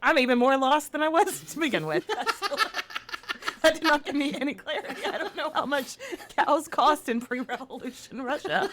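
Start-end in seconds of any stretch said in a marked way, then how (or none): 2.1-8.7 laughing, confused. Real, not acted. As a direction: chuckle through the words. Laughing bewildered.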